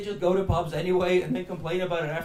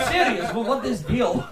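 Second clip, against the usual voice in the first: put-on Russian accent; mock Russian stand-up comic; 3 semitones higher than usual. Imagined Russian comic delivers his catchphrase, Russian accent. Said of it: "what Russian stand-up comedy looked like".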